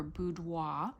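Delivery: BOUDOIR drawn out with a makeshift French accent; attempted French accent. Shown as a demonstration. Vlogger showing off a scent name to viewers, attempted French accent.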